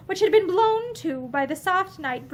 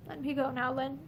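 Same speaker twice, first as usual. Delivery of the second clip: much softer, defeated; weak, beaten voice; 10 dB quieter than usual. A narrator's reading. Pansy giving up, telling Lynn to let her go, weak and soft. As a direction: let the words fall, beaten. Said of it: "spoke in a weak, beaten voice".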